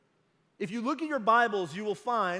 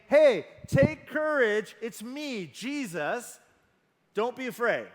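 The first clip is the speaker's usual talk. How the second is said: casual; 4 dB louder than usual. Shown as a demonstration. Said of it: "Jesus does not say".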